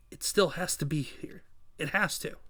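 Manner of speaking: softly to oneself; quiet, tense self-talk; hushed inner thought. Acted. Hero searches in secret, thinking.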